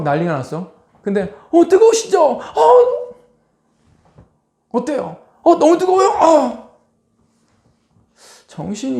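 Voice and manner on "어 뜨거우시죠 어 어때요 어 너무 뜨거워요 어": very high, loud sing-song mockery; taunting nurse. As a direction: taunt the scalded patient sweetly. Cruel nurse taunting patient. (아주 높고 크게 비꼬는 간호사)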